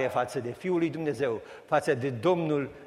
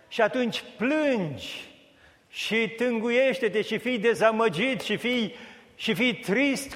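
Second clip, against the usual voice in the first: mock lament; 7 semitones higher than usual. Preacher mocks the self-pitying.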